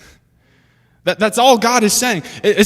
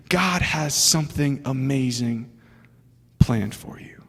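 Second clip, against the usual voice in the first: slow, soft, fading down to a breathy whisper; hushed promise; 5 semitones lower, 5 dB quieter, slower than usual. Acted. Preacher voicing the prophet's promise to Jeroboam, dropping to a whisper.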